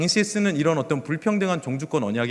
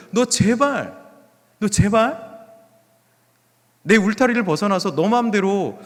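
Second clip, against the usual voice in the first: raised, pressing voice of appeal; earnest pleading; 3 semitones higher than usual. Acted. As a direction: plead insistently, as God imploring the people. Voicing God pleading with the people.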